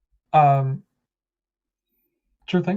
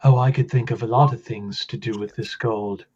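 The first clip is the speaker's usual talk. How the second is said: other voice. Acted. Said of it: "So the other voice says".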